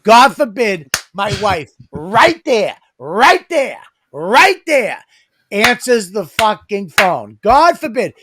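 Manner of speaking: mock-outraged, milking each right there; sarcastic complaint to his co-host about his wife answering the phone; sarcastic mock outrage.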